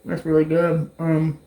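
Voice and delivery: talking while chewing; mouth full. Real, not acted. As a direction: say it through a mouthful of food. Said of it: "talking with my mouth full".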